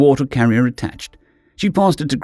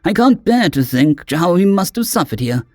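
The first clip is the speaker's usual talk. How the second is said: anguished caring friend; 4 semitones higher than usual. Acted. Gress anguished.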